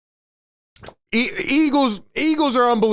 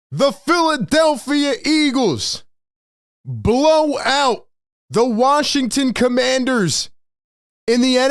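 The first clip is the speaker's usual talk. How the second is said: hype announcement; 2 semitones higher than usual. Real, not acted. Announcing the win, shouted.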